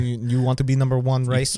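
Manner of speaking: a half-hearted Dutch racer voice; bad Verstappen accent. Lecturing the co-host like a racer, weak Dutch accent. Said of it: "that was a terrible accent".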